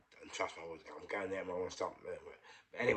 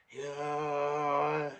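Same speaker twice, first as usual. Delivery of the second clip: long drawn-out, higher groan of a word; imitated groggy patient; 6 semitones higher than usual. Half-conscious patient answering hello, imitated drawn-out groan. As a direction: drag it out like someone barely conscious.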